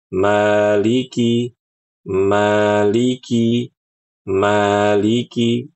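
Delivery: Maliki with two even beats per vowel; measured two-beat Maliki; swinging rhythm. Shown as a demonstration. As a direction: rock gently through Maliki. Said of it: "ya, begitu".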